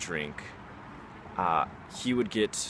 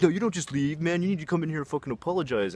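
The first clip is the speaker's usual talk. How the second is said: imitating an angry friend, much higher pitch; mock irate order in a raised voice; aggressive demand; 9 semitones higher, 3 dB louder than usual. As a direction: demand an apology, high and insistent. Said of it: "in the most aggressive manner possible".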